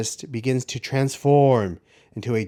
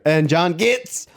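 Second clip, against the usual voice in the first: slow, drawn-out booming announcer delivery; 4 dB louder, much slower than usual. Pretend. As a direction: boom each name out slowly. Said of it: "that's how I want everyone to hear my voice".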